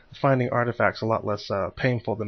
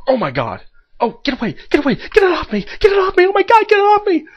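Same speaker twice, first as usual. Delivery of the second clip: panicked screaming, high and loud; shuddering revulsion; 13 dB louder than usual. Real, not acted. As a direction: shriek to get it off you. Alien attacks player, panicked screaming.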